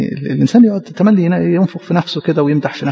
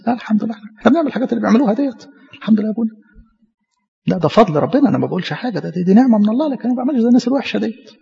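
higher, quick, falsely humble voice; a light send-up of the holier-than-thou; mock self-righteous believer; 4 semitones higher, faster than usual. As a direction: parody the smug believer thanking God.

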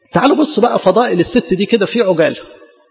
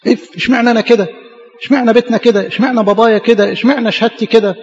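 mock whiny complaint; 4 semitones higher than usual. Mimicking complaining congregation.

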